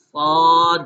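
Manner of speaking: "صاد" said loud with a clear alif, no w sound; spelled correctly. Shown as a demonstration. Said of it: "کیسے پڑھا جائے گا جی؟".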